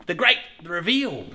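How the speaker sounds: drawn-out announcer reveal; slow grand build-up; slow showman announcement. Shown as a demonstration. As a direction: savour each word of the reveal. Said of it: "as I usually say".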